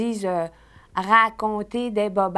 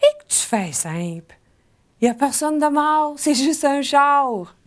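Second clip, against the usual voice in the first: acted quip; 4 semitones higher than usual. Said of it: "Puis là, vous lui dites".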